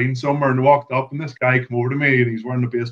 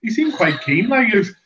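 high, excited and fast; eager high-pitched explanation; excited retelling; 5 semitones higher than usual. Retold or imitated. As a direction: gush the story out. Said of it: "I says".

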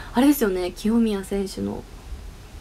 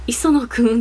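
slightly raised, louder name call; mock shout; 5 dB louder, slower than usual. Streamer retells a shouted name, mild mock yell. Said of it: "って叫んだ".

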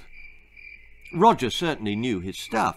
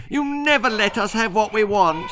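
whining brat; 10 semitones higher, 3 dB louder than usual. Acted. Percy whines at mother.

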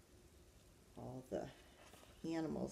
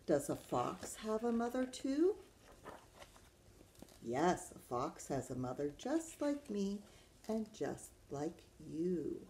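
put-on reading to children. Teacher reads Does a Kangaroo Have a Mother Too, lilting storytime voice. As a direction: read it to little ones, swooping the pitch.

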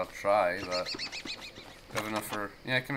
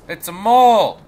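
excited discovery; 8 semitones higher, 12 dB louder than usual. Real, not acted.

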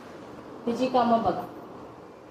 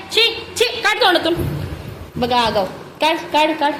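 1 scolding; 4 semitones higher than usual. Real, not acted. Toddler putting things in mouth.

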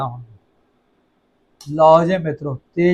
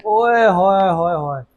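slow, drawn-out delight; relishing oye hoye; slower than usual. Real, not acted. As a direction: savour every hoye. Tasting the noodles. (ਸੁਆਦ ਲੈਂਦਿਆਂ ਓਏ ਹੋਏ)

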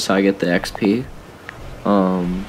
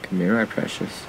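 creepy whisper; 5 dB quieter than usual. Pretend. Coaxing a creature to him.

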